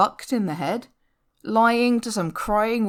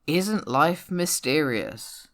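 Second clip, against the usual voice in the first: mock serious wonder; 4 semitones lower, slower than usual. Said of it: "people sitting around looking serious".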